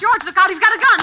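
high, loud warning cry; alarmed shout. Acted. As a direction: yell a frantic warning. Warning during armed fight.

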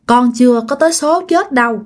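mildly tearful son begging his mother; crying ghost son. Retold or imitated. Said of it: "chú Lắm khóc nha".

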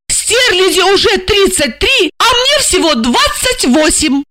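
high, proud, triumphant announcement; proudly. A narrator's reading. Jealous wife to her handler, proud and high. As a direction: boast of being younger. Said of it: "с гордостью сообщила".

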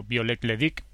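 name said in a French accent. Shown as a demonstration. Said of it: "perdonad mi acento francés".

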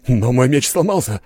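desperate shout. A narrator's reading. Duelist shouting his protest to the steward. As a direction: shout that your sword is broken. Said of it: "крикнул бритёр".

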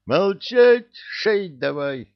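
loud, high shout, then a slow command; shouted order. Acted. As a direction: bark it at your son. General barks order at son.

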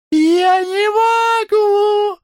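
very high, loud, slow squealing moan. Acted. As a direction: squeal it helplessly through laughter. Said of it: "стонала, повизгивая". (стон с повизгиванием, очень высоко и громко)

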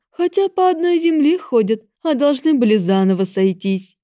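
loud, high menacing goddess; cold divine scorn. Acted. Goddess speaks of love.

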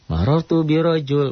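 "birojul" cut off at the l, no -in; stopped ending. Shown as a demonstration. Teacher showing an allowed pause form, ending dropped. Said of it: "tidak ada masalah dibaca".

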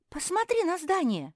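a high, loud order; commanding. A narrator's reading. Kuki ordering her sister to look at the house, high and loud. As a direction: tell her firmly to look. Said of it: "велела Куки".

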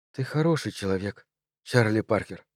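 soft, understated murmur with voice in it; hint at a whisper, quietly reassuring; gentle half-whisper. A narrator's reading. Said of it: "прошептала она".

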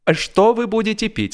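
lightly voiced question. A narrator's reading. Narrator offers the gentleman a drink, lightly voiced. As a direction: offer a drink to a new friend. Narrator asks new friend.

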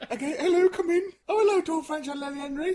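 high, loud mock-cheery greeting; hammed-up counsellor welcome. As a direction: greet the couple like an eager counsellor. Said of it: "I'll be them, right?".

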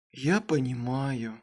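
soft, slow sleepy mumble; mumbled. Acted. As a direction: mumble it drowsily. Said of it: "пробормотал Кайл".

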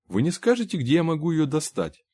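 lightly voiced high, courteous inquiry; polite salesman. A narrator's reading. Trader asking customer where to get a pipe, mildly eager high voice.

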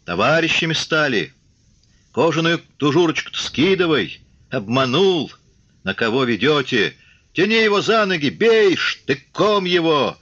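high heckles building to a shout; angry short cries. A narrator's reading. Enraged soldiers turning on the commissar, angry short cries. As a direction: hurl spiteful cries from the crowd, rising in pitch. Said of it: "зазвучали озлоблённые короткие вскрики".

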